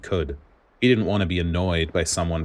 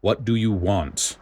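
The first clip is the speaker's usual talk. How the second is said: grouchy growl; 3 semitones higher, slower than usual. Acted. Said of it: "With a grouchy growl".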